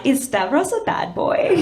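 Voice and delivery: high, slow, laughing delight; mock thrilled swoon about danger; giddy thrill. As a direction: swoon over the bad boy.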